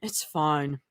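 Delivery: quiet, brushing it off; dismissive. Acted. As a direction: dismiss it softly. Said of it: "Mira says dismissively".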